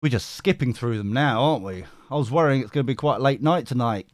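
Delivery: ordinary talk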